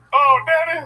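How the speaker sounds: high raspy shriek of Daddy; raspy voice with eagle shrieks. Acted. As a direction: screech it like an eagle. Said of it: "That's my Eric Griffin voice".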